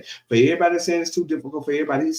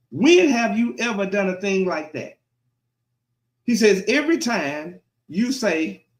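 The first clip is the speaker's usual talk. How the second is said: emphatic sermon delivery of scripture; preaching God's words; 3 semitones higher than usual. Acted. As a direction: preach it as God's complaint, pausing between phrases.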